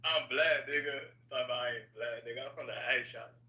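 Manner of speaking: insistent, casual Atlanta talk; "real" talking voice. Shown as a demonstration. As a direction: play up an Atlanta accent. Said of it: "this is how I really talk".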